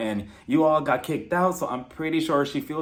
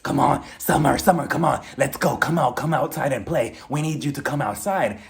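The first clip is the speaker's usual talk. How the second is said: imitated calling out. Marlo calling Kenya outside to play, imitated insistent calling. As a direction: badger someone through a closed door.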